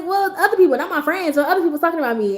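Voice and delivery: put-on a kid explaining who gossips; little sister voice.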